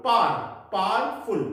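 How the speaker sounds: "पार" alone, then "पावरफुल" as "paar-ful"; pronunciation breakdown. Shown as a demonstration. Teacher breaks it down for students, "पार", then "पावरफुल" as "paar-ful". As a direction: isolate "पार", then join it into "पावरफुल" without a w. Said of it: "पावरफुल नहीं होता है इसका pronunciation".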